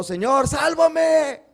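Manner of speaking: high, loud, slow cry for help; desperate shout. Retold or imitated. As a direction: scream it like a drowning man begging to be saved. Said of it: "Gritó".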